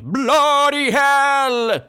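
very high, long-drawn shout. Shown as a demonstration. Teacher showing how Spaghetti didn't say it normally, shouting. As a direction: holler it, stretching both words out high. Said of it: "He shouted it, right? Like".

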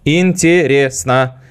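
slow, stiff mechanical robot voice; a robot laughing ha-ha-ha, then drawling; robot Werther voice. Retold or imitated. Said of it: "Он разговаривал так".

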